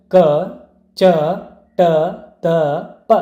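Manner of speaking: ಕ, ಚ, ಟ, ತ, ಪ said with little breath; letter by letter, ಕ, ಚ, ಟ, ತ, ಪ unaspirated, with pauses between; unaspirated consonants. Shown as a demonstration. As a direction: release ಕ, ಚ, ಟ, ತ, ಪ without a puff of air. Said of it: "ಕಡಿಮೆ ಉಸಿರಿನಿಂದ ಉಚ್ಚರಿಸಲ್ಪಡುವಂತಹ".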